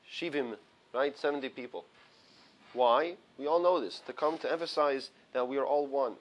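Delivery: low, sore-throat voice. Real, not acted. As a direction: talk through a sore throat. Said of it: "I apologize for the low voice".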